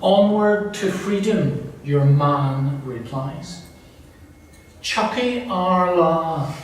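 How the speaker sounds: slow story narration with lifted quotes; mildly performed dialogue in a deliberate reading; reading aloud. Acted. Reads shouted greetings in account.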